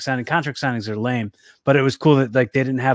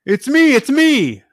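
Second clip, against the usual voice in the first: high slow squeal; 13 semitones higher, 5 dB louder, slower than usual. Retold or imitated. Imitating the Miz on ropes.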